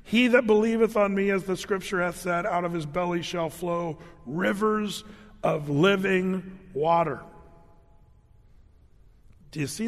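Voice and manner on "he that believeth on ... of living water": a lifted, measured public cry; proclaiming cry. Acted. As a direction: call it out like a preacher to a feast crowd. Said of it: "Jesus stood up and cried".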